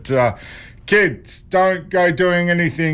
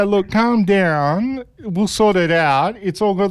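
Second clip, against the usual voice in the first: calm soothing parent; 4 semitones higher, slower than usual. Retold or imitated. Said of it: "they don't sit there and go".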